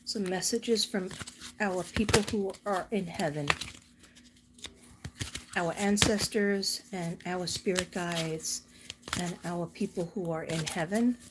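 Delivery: measured, slightly hushed prayer; a gentle, unhurried plea to God; spoken prayer. Real, not acted. Asking dear God for messages from people in heaven, gentle prayer.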